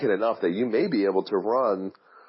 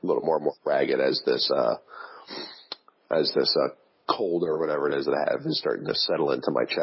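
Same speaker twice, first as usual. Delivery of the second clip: voice giving out; 5 semitones lower, faster than usual. Real, not acted. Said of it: "As you can hear, I'm getting a little more".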